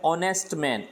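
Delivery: ऑनेस्ट said with no H, starting on "o"; silent H. Shown as a demonstration. Teacher sounds out ऑनेस्ट for students with H silent. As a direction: open ऑनेस्ट straight on the vowel. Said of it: "एच silent है".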